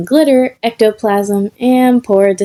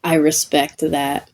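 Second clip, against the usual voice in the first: awestruck; 4 semitones lower, 5 dB quieter than usual. Acted.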